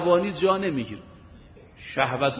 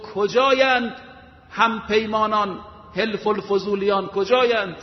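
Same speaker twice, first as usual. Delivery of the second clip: raised call, strongest on the first کجایند; calling the allies to gather at the Kaaba; half-shouted summons; retold cry for allies; 2 semitones higher than usual. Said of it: "فریاد زد".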